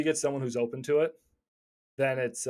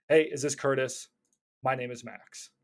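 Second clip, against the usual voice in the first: friendly cold call opener. Shown as a demonstration. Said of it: "I presented myself and I got his attention".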